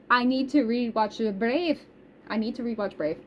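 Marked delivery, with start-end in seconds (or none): 0.1-1.8 put-on playful Scottish accent drifting into Irish; botched Scottish lilt, slightly Irish; attempted Scottish accent. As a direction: try a Scottish accent, not quite landing it. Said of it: "I was trying to do Scottish".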